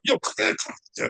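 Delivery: hushed, voiceless urgent beckoning. Retold or imitated. Son pressing his mother to leave the line, urgent whisper. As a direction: retell it as an urgent whispery hiss.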